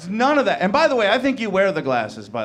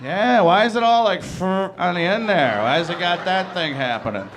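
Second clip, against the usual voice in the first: mocking jeer; 3 dB louder than usual. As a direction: jeer at him across the room. Mock locker room jeer.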